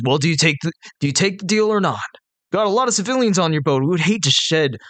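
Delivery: lightly voiced threatening hobgoblin; a calm offer with a threat. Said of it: "The hobgoblin says".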